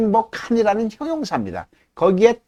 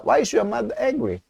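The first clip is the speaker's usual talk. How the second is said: slow falling question for repeating; falling end; 5 semitones higher, 4 dB quieter, much slower than usual. Shown as a demonstration. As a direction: model line, "Why" high, "angry?" falls. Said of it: "한 번 더". (따라 하도록 끝을 내리는 억양)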